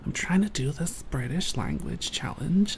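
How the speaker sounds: lightly put-on meme guy voice; meme guy impression. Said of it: "he was talking like this".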